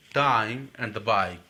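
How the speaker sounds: very slow, each vowel glide stretched; slow demo. Shown as a demonstration. Teacher slowly modelling diphthongs to the class, stretched. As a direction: stretch "time" and "bike" out syllable by syllable. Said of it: "ये sound यहाँ पे दे रहा है".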